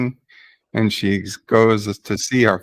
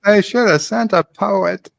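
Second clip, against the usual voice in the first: put-on a clumsy stab at a North Carolina accent, pitched higher; attempted North Carolina accent; 8 semitones higher than usual. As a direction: try for a North Carolina accent, not quite landing it. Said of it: "He sounds like a Dutchman trying to speak Aussie".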